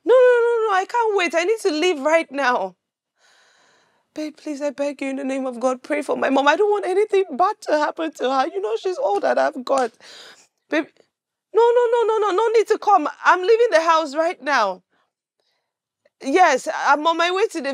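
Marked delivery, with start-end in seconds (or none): 0.0-2.7 panicked urgency. Acted. Frantic phone call about sick mother. 11.5-14.8 higher, hurried string of refusals; head them off anxiously; flustered urgency. Acted. Urgently turning down company on phone.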